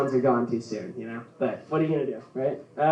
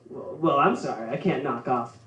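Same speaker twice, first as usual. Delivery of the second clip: put-on Minnesota accent; 4 dB quieter than usual. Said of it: "I love how they talk".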